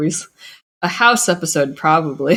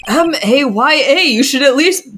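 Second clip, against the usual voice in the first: higher, louder character voice; acted scolding retort; 7 semitones higher, 4 dB louder than usual. Game character tells Maya off for being impolite, scolding. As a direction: scold in a high, emphatic voice. Acted reply to the spelled-out greeting.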